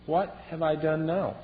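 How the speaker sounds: slow, mild, bewildered question; innocent youngest brother. Acted. David to his angry older brother, gentle and slow. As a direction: ask it gently, genuinely puzzled. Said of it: "And he just asked".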